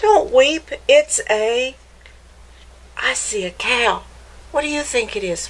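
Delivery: put-on lively storybook read-aloud for kids; picture-book narration voice; reading to children. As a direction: read it like story time for little ones.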